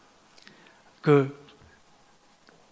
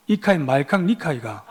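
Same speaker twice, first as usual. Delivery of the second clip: imitated Gyeongsang dialect retort; Gyeongsang accent; 3 semitones lower than usual. Gyeongsang man answers complaint on subway, thick Gyeongsang accent. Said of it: "한 경상도 남자가 이렇게 말했답니다".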